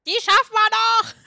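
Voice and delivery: rally the team with a loud shout; excited cheer. Real, not acted. Gamer rallying teammates mid-round, excited loud cheer.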